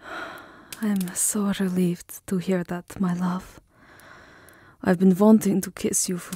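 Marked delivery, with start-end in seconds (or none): 0.0-3.6 a long sigh of relief, then hushed and slow; relieved sigh. Acted. Vampire lover reassured by the beloved, relieved sigh. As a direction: let the worry melt out on the breath.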